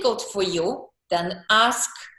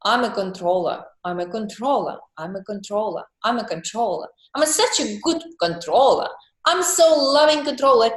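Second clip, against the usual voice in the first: self-talk demo; 2 semitones lower, faster than usual. Shown as a demonstration. Coach shows how to embrace your controlling side, murmur building to pride. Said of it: "Then you can talk".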